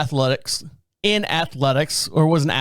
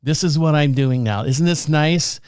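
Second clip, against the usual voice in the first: deadpan. Retold or imitated. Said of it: "dead at the camera here".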